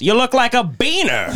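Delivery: high, hammed-up jeer; mock public insult. Godfather insulting godson in the store, mock jeer. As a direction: call it out for the whole line to hear.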